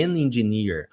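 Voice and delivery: "an engineer" with the n linked; correct article. Shown as a demonstration. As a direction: join "an" to "engineer". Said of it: "é". (versão certa: "an engineer")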